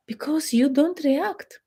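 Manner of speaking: hushed, breathy whisper. Acted. Coach telling wives about ignored husbands, whispered slowly. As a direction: drop to a secret whisper, slow.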